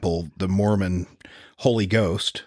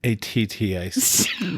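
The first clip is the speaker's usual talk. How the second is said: slow spelling; slower than usual. Pretend. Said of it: "spell attic".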